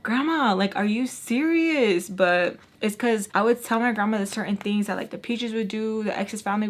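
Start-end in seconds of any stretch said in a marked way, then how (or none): 0.0-2.1 raised, indignant appeal, slowing down; mad disbelief. Retold or imitated. Granddaughter confronting her grandma, mad and incredulous. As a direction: retell an indignant challenge to grandma. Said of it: "being so mad, like".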